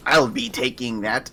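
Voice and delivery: slow, lightly voiced goblin; a hint of a sly goblin grabbing. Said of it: "in my goblin voice".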